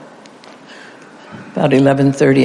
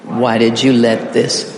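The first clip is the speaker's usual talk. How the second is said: slow lead-in; 3 semitones lower, slower than usual. Shown as a demonstration. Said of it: "we're going to emphasize".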